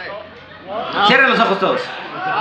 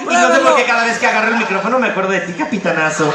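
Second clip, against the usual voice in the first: macho cartoon voice. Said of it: "Diría algo así como".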